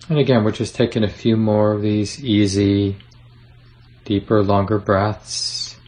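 unhurried meditation guide with long pauses; easy, spacious guiding voice; guided meditation. Acted. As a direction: gently lead them through settling, leaving room to breathe.

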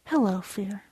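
soft, understated murmur to oneself; quiet. Retold or imitated. Son alone in the dark greets his fear, quiet. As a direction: say it softly into the dark.

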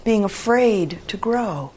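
high, excited announcement; joyful shout. A narrator's reading. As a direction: announce it with storybook delight. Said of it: "shouted Toad".

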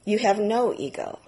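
flat, even statement, no emotion; same flat tone. Retold or imitated. Teacher giving the opposite verdict in the same flat tone. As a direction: say it dead level like a verdict. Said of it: "in exactly the same tone of voice".

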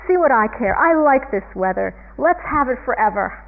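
mildly yelled, mock defiance; Calvin. Calvin telling the sky not to snow, mild defiant yell. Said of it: "And then he yells up".

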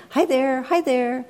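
put-on high, loud, gleeful baby squeal. One-year-old greets a stranger in a restaurant, squealing with glee. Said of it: "He's squealing with glee".

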